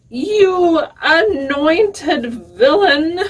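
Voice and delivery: loud, high, drawn-out donkey roar; thunderous roar. A narrator's reading. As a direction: bellow it slowly at the villain. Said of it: "roaring like thunder".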